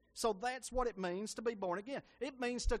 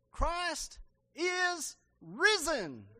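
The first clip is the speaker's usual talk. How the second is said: long, drawn-out high shout; shouted greeting; 9 semitones higher, 7 dB louder, much slower than usual. Retold or imitated. A man shouting the ancient greeting to the crowd, slow and loud. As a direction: call it out slowly to the whole hall. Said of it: "here's what he shouted".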